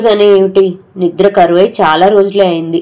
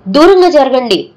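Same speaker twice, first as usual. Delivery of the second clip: raised, higher cry to stand back; impatient shout; 6 semitones higher than usual. Retold or imitated. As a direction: shout them away, impatient. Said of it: "అని అసహనంగా అరిచాను". (అసహనంగా అరుపు)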